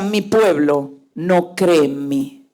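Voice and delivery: low, slow, understated lament; sorrowful voice of God. Retold or imitated. God laments to the speaker about the people, understated sorrow. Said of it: "como si estuviera llorando".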